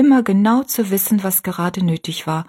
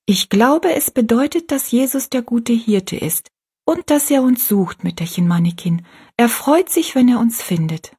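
leicht höher gesprochenes Mädchen; kindliche Rosalie; 5 semitones higher than usual. Acted. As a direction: ein stolzes Kind erklärt sein Bild. Rosalie explains. (Rosalie erzählt der alten Frau stolz vom Bild, leicht höher)

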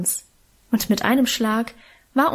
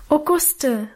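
put-on child calling out to Guste, pitched up; a glad, pleading cry; girl greeting Guste eagerly, voice raised; 4 semitones higher than usual. A narrator's reading. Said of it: "rief ich ihr entgegen".

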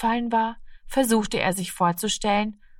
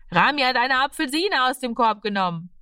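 higher-pitched tell-tale call, only mildly raised; imagined children's cry; 6 semitones higher than usual. A narrator's reading. Children behind Rami might give away his theft, crying out. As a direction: call it out like a child telling on someone. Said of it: "ob sie schreien würden".

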